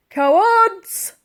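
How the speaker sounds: high, loud scornful yell; angry shout. A narrator's reading. Barker shouting at fleeing men, angry yell. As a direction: spit the insult. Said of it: "shouted Barker".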